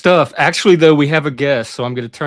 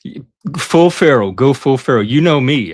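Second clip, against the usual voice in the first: excited; 3 semitones higher, 9 dB louder than usual. Real, not acted. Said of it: "host excitedly demands feral mode".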